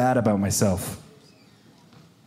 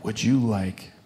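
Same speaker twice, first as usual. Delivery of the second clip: little voice; 4 semitones lower, 6 dB quieter, slower than usual. Retold or imitated. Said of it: "this little voice says".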